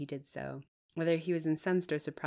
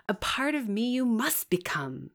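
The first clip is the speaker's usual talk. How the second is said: steady; 6 semitones higher, 6 dB louder than usual. A narrator's reading. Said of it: "he answered steadily".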